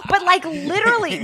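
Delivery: real laughter spilling into the words; laughing. Real, not acted. Laughing at her own dating story, laughing through words.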